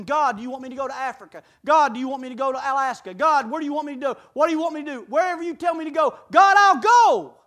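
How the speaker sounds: eager prayer. Retold or imitated. Voiced prayer of eager believer.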